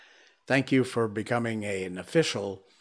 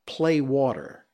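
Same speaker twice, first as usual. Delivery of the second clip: Malaysian English phrase; slower than usual. Shown as a demonstration. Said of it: "they say".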